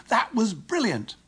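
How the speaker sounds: high, drawn-out delight; thrilled, soaring exclamation; excited praise. Shown as a demonstration. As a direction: cheer it like after a fantastic goal. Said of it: "say with excitement".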